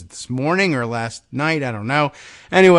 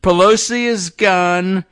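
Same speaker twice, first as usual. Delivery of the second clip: slow, higher mock bluster; lightly voiced Trump boast; 4 semitones higher, 4 dB louder, slower than usual. Host reading Trump's post, hint of Trump bluster.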